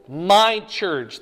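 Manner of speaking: MY drawn out and punched in "my church"; stress on MY. Real, not acted. Preacher reading Christ's promise to the class, stress on MY. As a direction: lean hard on MY, then church.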